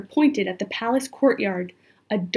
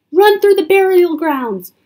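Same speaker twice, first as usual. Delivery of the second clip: high, loud escape order; urgent instruction; 7 semitones higher, 9 dB louder than usual. A narrator's reading. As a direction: send them fleeing with a raised voice. Scholar urges escape from soldiers.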